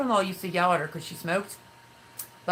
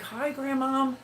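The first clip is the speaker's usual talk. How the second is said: higher-pitched imitated hello; retold greeting; 8 semitones higher, slower than usual. Grandson answering his confused grandma, imitated greeting.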